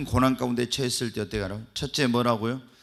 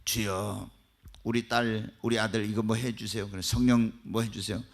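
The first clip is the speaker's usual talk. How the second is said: scattered prayer; 6 semitones lower than usual. Shown as a demonstration. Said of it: "왔다리 갔다리 하면은 이게 안 돼".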